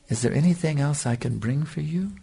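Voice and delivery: imitating a soft, sweet offer of service; sweet, loving voice. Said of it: "in a very sweet, loving voice".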